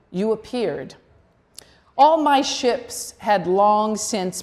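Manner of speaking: measured poem recital with pauses between phrases; poetry reading. Acted. Poet reads Virginia's love poem to Vita to an audience, poetry reading. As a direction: read it as verse, each line set apart.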